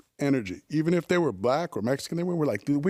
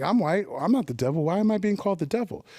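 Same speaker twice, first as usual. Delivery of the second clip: incredulous, rising higher by the question; indignant disbelief; 6 semitones higher than usual. Retold or imitated. White kid protesting to his favorite rappers, indignant and high. Retells being called the devil.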